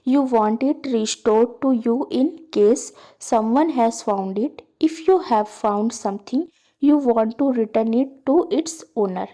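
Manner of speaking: slow, deliberate read-aloud of a task; slow textbook reading. Acted. Teacher reading the textbook task to students, slow and deliberate. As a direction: read each word out slowly for the class.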